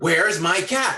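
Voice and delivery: put-on furious man voice, high and loud. Retelling a man who slammed his door and demanded his cat: imitating an angry man. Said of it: "and he's angry".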